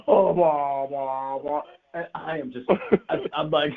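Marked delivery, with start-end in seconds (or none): 0.1-1.6 long, drawn-out mock bleat; sheep bleat. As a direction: bleat the nonsense syllables like a sheep. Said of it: "I feel like a sheep going".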